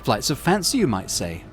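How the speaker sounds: high, cold commanding woman's voice; imperious rogue trader. Acted. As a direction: lay out the test like a superior.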